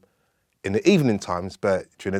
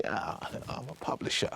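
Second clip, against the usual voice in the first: put-on posh English accent; 14 dB quieter than usual. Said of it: "that very pronounced English accent".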